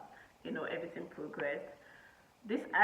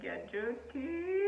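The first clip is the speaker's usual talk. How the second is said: incredulous; 6 semitones higher, much slower than usual. Retold or imitated. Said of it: "I was like".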